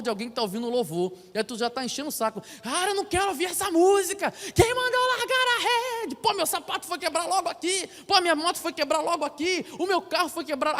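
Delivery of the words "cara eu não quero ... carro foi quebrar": high, whiny complaining voice; mock grumbling. Annoyed person stuck near a church, high mock-whiny complaint. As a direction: whine like a sulky passerby fed up with church music.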